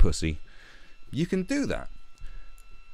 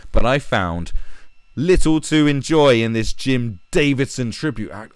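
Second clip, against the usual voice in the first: louder, higher pompous recital; mocking read-aloud; 5 semitones higher, 5 dB louder than usual. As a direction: read it as a self-important little boy. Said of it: "let's read what this little boy has to say".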